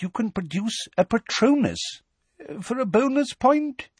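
put-on high, wavering old professor voice; kindly old wizard, a bit doddery; old examiner. A narrator's reading. Tofty's voice in story.

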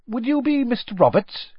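high, bright eager question; eager wizard. A narrator's reading. Mister Weasley checking the owner's name, high and eager. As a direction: lean in keenly, stress you.

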